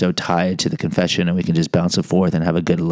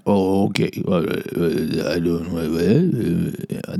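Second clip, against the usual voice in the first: indifferent parent; 2 semitones lower, 3 dB quieter, much slower than usual. Retold or imitated. Indifferent parent voiced in story.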